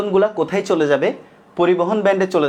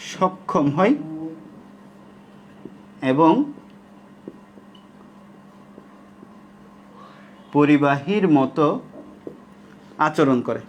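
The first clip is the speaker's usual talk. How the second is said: slow phrases, long gaps between them; slow dictation; much slower than usual. Shown as a demonstration. Teacher finishes the line students are writing, slow dictation. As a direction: let each chunk land before the next. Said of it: "আমি একদম আস্তে আস্তে বলতেছি".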